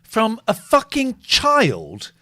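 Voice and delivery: slow, loud outraged disbelief; incredulous rant. Real, not acted. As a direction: drag it out in disbelief.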